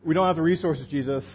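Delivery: exasperated disciples. Retold or imitated. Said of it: "zero expectation that Jesus".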